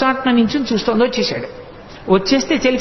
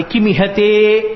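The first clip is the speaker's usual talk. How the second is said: slow recitation; much slower than usual. Shown as a demonstration. Sanskrit verse word recited.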